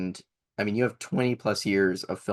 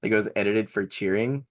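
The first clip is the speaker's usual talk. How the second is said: ordinary talk, nothing marked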